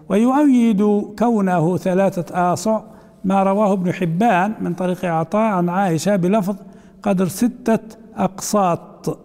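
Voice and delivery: ordinary talk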